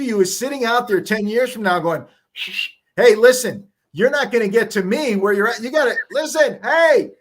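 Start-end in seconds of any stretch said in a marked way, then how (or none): 3.0-7.1 yelling future self. Retold or imitated. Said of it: "He's yelling back through the time machine".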